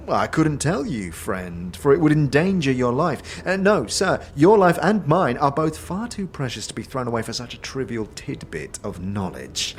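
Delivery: high, pompous barkeep; grand refusal like a pompous innkeeper. Acted.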